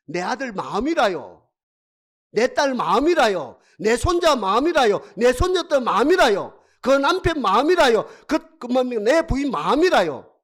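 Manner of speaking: loud, rhythmic preaching list; emphatic preaching. Real, not acted. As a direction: drive each item home with the same swing. Preacher driving home a list.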